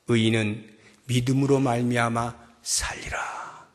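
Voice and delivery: hushed, reverent whisper; solemn whisper. Acted. God giving the prophet the final word, whispered. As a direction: breathe the words like a secret.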